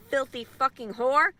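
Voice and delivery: loud, slow, furious insult; furious shout. Real, not acted.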